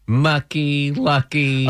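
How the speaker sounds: imitating a toddler. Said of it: "but he does this".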